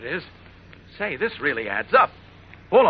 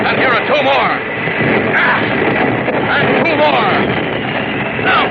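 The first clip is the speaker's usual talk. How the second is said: excited fighting; 7 semitones higher, 6 dB louder than usual. Acted. Hero fighting planes.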